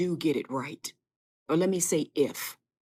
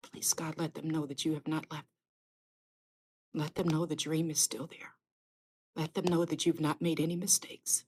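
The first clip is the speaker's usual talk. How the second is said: soft, hushed prayer, much softer; whispered prayer; 7 dB quieter than usual. Real, not acted. Pastor praying for her live viewers, soft whispered pleading. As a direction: pray quietly, pleading with God.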